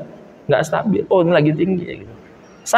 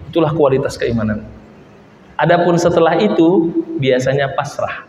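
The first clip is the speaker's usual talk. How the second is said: low, calm advice, a hint of the Prophet speaking; lightly voiced wise teacher, patient; counselling gently, slowly in places; gentle prophet's voice; 3 semitones lower than usual. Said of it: "Kata Rasul".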